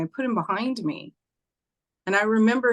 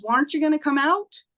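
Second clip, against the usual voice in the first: put-on little girl voice; 8 semitones higher, faster than usual. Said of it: "little girl on big wheel".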